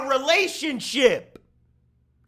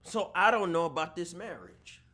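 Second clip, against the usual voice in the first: mock sneer; 6 semitones lower, 6 dB quieter than usual. Mocking wife in low voice.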